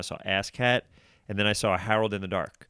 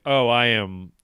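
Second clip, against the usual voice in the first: louder, drawn-out "all about this"; excited gush; 7 dB louder, slower than usual. Retold or imitated. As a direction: gush with sudden delight. Excited about UCB classes.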